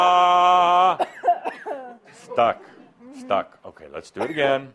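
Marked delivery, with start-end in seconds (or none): 0.0-1.0 full-lunged scream on a count; raw open scream. Real, not acted. Workshop leader screams with Mary to free her voice, full scream. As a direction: scream it out at the top of your lungs. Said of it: "on three, one, two, three".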